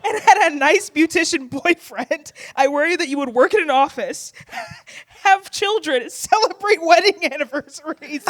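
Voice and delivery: breaking into laughter through the line; laughing quote. Retold or imitated. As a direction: giggle while reciting. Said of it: "quote continues".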